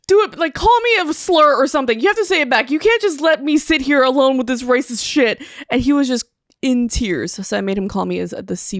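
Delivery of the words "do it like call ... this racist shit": loud pleading. Retold or imitated. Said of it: "And I'm like".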